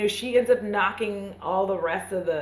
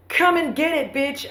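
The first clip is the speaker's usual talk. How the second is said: mock hero taunt; 7 semitones higher than usual. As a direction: throw down the challenge like a cocky action hero. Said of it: "I don't think he says that".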